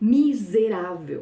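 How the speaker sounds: emotive stress pulled onto first syllable mi of miserável. Showing an emotional stress shift in a portuguese word: stress pulled onto mi of miserável. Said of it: "Mas aí eu posso puxar pro mi".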